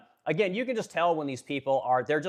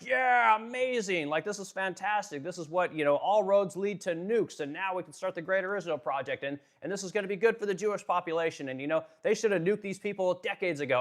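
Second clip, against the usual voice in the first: higher, mock-enthusiastic gushing; starry-eyed mock praise, pitched up; mock gushing fan; 5 semitones higher than usual. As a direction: gush blindly like an uncritical cheerleader. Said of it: "they'd just be like".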